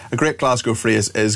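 ordinary talk, nothing marked

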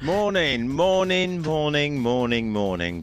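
a cheery cascade of good mornings; playful sing-song greeting. Real, not acted. Playful drawn-out greeting reply.

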